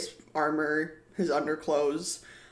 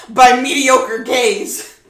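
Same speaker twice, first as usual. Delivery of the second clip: sulking fairy snubs the party, loud and high; haughty fairy; 7 semitones higher, 15 dB louder than usual. Acted. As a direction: look down your nose and drag it out. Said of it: "He's like".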